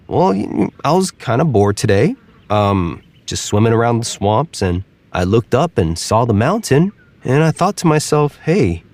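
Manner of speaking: a bored alligator telling his plan. Acted. Alligator explains himself.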